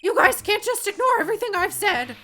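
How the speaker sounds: loud, high clown shouting; silly clown. Acted. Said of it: "When I did this clown voice".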